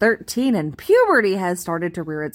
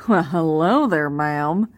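lightly hammed-up, low Southern country-boy drawl; thick Southern twang; 3 semitones lower, slower than usual. Country boy greeting a tiny twelve-year-old, thick fake Southern twang. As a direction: put on an unnatural Southern twang. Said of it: "this thick Southern twang".

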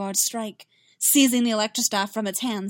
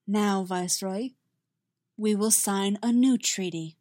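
cold. Acted. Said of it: "said coldly".

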